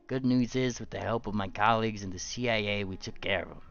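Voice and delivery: a hint of a rumpled detective; lightly voiced gumshoe, musing; Columbo impression. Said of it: "I'm gonna do Columbo".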